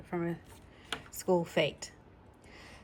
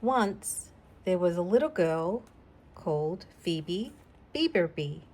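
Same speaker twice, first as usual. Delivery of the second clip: put-on gentle read-aloud for a child; story reading. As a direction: read it like a bedtime story to a little girl. Reads the picture book aloud.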